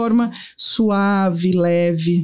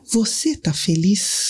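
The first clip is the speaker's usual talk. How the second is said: slow tender question; much slower than usual. Retold or imitated. Son asks mother softly.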